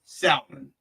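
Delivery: salmon with a sounded L, pitched high; L pronounced. Shown as a demonstration. Showing his own habit, salmon with the L sounded. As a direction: say salmon as SAL-mon, L heard. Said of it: "because I pronounced that L right there".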